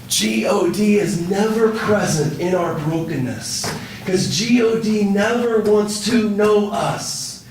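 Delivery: deliberate spelled-out G O D, pressed home; emphatic preaching. Real, not acted. Preacher's emphatic point on brokenness.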